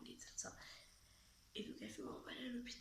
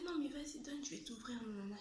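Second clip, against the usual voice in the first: bossy little sister; 5 semitones higher than usual. Retold or imitated. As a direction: boss her sibling around in a high voice. Sister insisting in retold quarrel.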